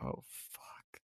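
unvoiced muttered oh fuck; a whispered aside curse; under-breath curse. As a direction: breathe it out in disbelief. Stunned reaction retold.

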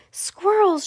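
high squeal of delight; excited shout. Acted. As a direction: squeal the word out. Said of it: "shouted Veruca".

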